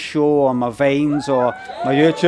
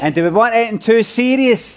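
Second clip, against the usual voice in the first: raised crowd-hyping question; rallying the crowd; 4 semitones higher than usual. Real, not acted. Comedian to audience on a night out, rallying call. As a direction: call out for a big answer.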